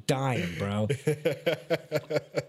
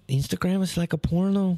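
high, accented imitation like a cartoon mouse; imitating the coworker as Slowpoke; Slowpoke Rodriguez voice; 8 semitones higher than usual. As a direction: mimic him like Slowpoke Rodriguez. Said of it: "he sounds like Slowpoke Rodriguez".

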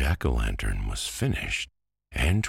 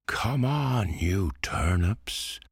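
calling out; 8 semitones higher, slower than usual. A narrator's reading. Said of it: "called Pumpkin".

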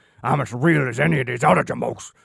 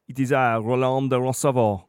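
French knight; 3 dB quieter than usual. Acted. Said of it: "we weren't going to do an accent for you".

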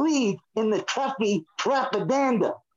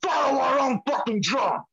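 angry rant; 2 semitones higher than usual. Real, not acted. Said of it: "T J's going off today".

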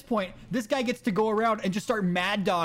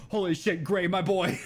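laughing. Retold or imitated. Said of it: "the way Nate just said that".

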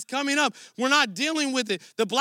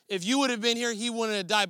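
indignant; faster than usual. Retold or imitated. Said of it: "Martha came indignant".

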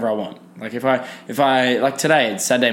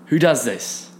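higher-pitched mock disgust at a friend; disgusted outburst; 4 semitones higher than usual. Calling across the room to a nose-picking mate, higher, disgusted. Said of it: "and you'll be like".

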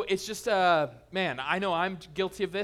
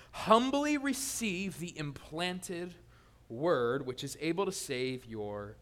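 slow scripture reading; 2 semitones lower, much slower than usual. Shown as a demonstration.

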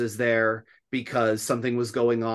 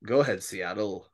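radio host voice; 4 semitones lower than usual. Shown as a demonstration. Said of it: "That's my radio voice".

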